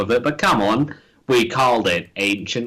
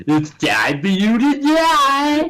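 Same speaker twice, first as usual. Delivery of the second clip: high, drawn-out villain taunt; hammed-up villain line, pitched way up; mock villain threat; 12 semitones higher, 3 dB louder, slower than usual. Co-host mimics the villain line.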